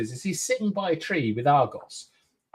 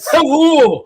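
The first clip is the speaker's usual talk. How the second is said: laughing mock hello; 12 semitones higher, 12 dB louder than usual. Laughing mock greeting in character.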